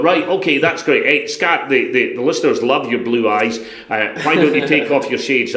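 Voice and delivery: a light take on a chirpy director; lightly voiced cheery director; American director. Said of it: "Gene's going".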